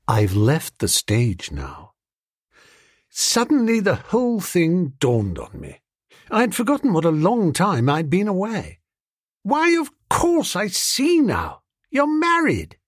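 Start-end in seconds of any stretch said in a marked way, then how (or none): 0.1-1.9 slow and lower, a lightly voiced young wife; calm, final. Muriel tells Bertie she has quit the stage, slow and composed. 9.4-12.8 much higher, slow, a startled toff catching on; dawning surprise. Acted. Bertie realises Muriel has married the uncle, high and startled.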